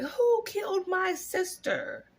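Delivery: high, slow mock witch demand; a lightly hammed-up angry witch; wicked witch quote. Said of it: "she's like".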